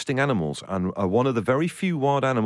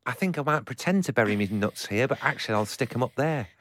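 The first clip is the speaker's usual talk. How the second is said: northern squirrel voice. Pretend. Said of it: "do your squirrel voice again".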